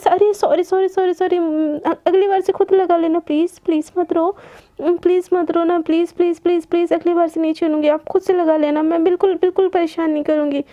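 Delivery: rapid string of anxious sorrys and pleases; pleading apology. Acted. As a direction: coax someone out of tears, repeating yourself. Apologising as wife starts crying. (मिन्नत करते हुए माफ़ी)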